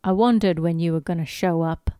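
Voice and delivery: put-on a touch of a British accent; light posh British Widmore voice. Widmore greets Ben in a light British accent. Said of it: "he's British, he's British".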